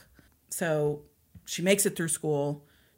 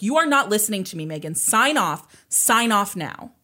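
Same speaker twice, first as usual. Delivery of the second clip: mom losing it; 4 semitones higher, 6 dB louder than usual. Retold or imitated. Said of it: "Tina loses it".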